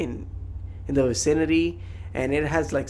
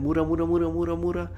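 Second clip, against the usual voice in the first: imitating battle cry; 3 semitones higher, faster than usual. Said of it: "his battle cry".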